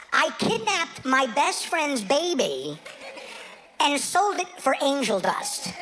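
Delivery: each word spelled out slowly; slow deliberate retelling of Juan. Retold or imitated. Comic retelling the rehab confession, slow and deliberate. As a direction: lay out Juan's confession word by word. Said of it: "Juan said".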